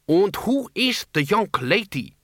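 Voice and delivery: high, slow, put-on Transylvanian countess voice; affected Transylvanian tones. A narrator's reading. Countess Doreen greeting Ludmilla in put-on Transylvanian tones. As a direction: lay on the fake Transylvanian airs, slowly. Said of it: "more normal tones of one born and brought up in Ankh-Morpork".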